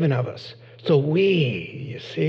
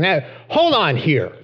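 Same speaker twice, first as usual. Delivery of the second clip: indignant protest; 4 semitones higher, faster than usual. Retold or imitated. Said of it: "James and John saying".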